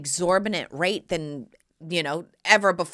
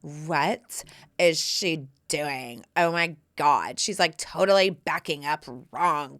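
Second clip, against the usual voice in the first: mock snooty couple; 4 semitones lower, slower than usual. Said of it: "their faces were like this".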